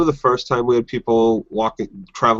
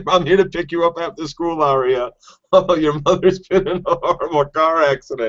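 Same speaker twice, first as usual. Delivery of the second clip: higher, wheedling stranger-danger voice; creepy stranger; 6 semitones higher than usual. Pretend. Pretend stranger luring Arya after school, creepy higher voice. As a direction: lure a kid into the car, sing-song and high. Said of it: "stranger danger".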